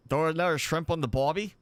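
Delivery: put-on a light, quick stab at an Australian accent, mostly his own voice; Aussie accent. Streamer jokes to viewers in a half-hearted Australian accent. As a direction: toss off a hammed-up Aussie line, barely Australian. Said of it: "My best Aussie accent".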